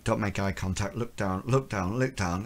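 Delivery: soft, repeated self-instruction; retold under-the-breath thought; hushed inner warning. Woman tells herself to avoid a stranger's eye, hushed inner warning.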